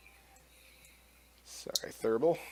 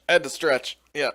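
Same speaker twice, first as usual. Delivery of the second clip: ordinary talk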